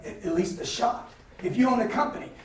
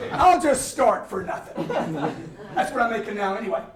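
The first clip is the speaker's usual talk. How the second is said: higher, laughing words; laughing while talking; 6 semitones higher than usual. Real, not acted. Joking with the seminar crowd, laughing through it.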